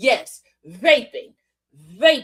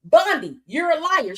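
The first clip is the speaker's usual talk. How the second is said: loud, higher call of a foul; mock referee call; 4 semitones higher, 4 dB louder than usual. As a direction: throw the flag on her. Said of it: "Mister Lieu was like".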